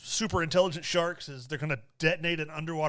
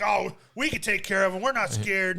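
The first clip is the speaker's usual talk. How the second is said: acting tough; 3 semitones higher, 4 dB louder than usual. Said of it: "acting all tough".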